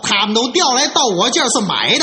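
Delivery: hurried acted indignation; flustered, worked up. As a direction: protest hotly at the mother-in-law. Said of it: "他可急了".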